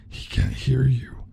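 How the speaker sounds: slow, mildly eerie taunt; creepy villain. Acted. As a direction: sneer it slowly. Freddy mocking her cries.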